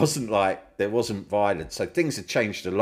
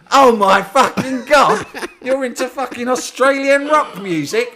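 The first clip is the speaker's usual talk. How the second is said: mock outraged brother; 12 dB louder than usual. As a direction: ham up the brother's horror at rock music. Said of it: "was like".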